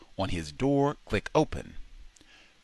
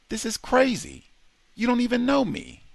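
disbelief; 4 dB louder than usual. A narrator's reading. Pratt stunned by stranger's protection.

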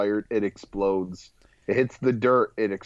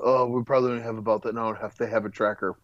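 rapid mock quote; much faster than usual. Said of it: "quoting the hero".

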